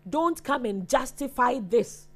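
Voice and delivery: slow, firm telling-off; slowed-down insistent scolding; stern rebuke. Real, not acted. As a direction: warn them off, word by word. Host rebukes a commenter, repeating herself.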